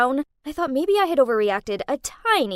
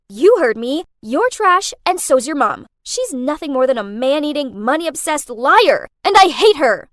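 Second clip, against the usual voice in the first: louder, furious insults; angry yelling; 2 semitones higher, 9 dB louder than usual. Acted. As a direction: spit the insults down the phone. Continuing the angry phone attack.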